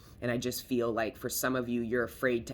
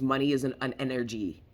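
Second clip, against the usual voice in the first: voice of the universe; 4 dB louder than usual. Retold or imitated. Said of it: "the universe goes".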